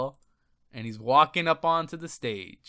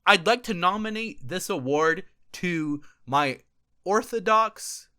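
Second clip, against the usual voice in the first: louder, slow mock award speech; lightly hammed-up kid at the mic; a hint of a grand announcement; imitating the kid; 5 dB louder, slower than usual. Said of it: "He said".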